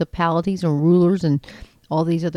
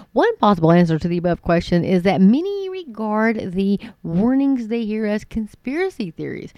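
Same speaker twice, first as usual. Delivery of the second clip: expressive read-aloud, lifting the key words; article read aloud; 2 semitones higher than usual. Acted. Host reading an article to listeners, expressive read-aloud. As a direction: read it out with lively, swooping emphasis.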